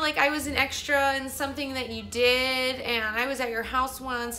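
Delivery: high, gushing put-on girl voice; self-centred girl. Vlogger mimics a girl making it about her, mocking. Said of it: "trying to make this whole thing about her".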